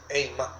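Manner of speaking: eimá stressed on its last vowel, á; stress on final A. Shown as a demonstration. Preacher repeating the Hebrew word for fear, eimá stressed at the end. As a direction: land the accent of eimá on the á. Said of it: "termina con acento en la A".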